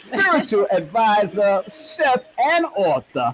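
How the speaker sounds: drawn-out showman's billing, rising in pitch; big, slow celebrity intro; radio announcer introduction. Acted. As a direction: announce the guest like a radio host, stretching each title. Radio-style guest introduction.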